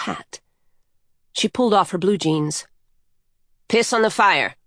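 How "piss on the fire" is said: understated, acted exclamation; mild cry. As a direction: call it out lightly, without really shouting. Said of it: "she cried".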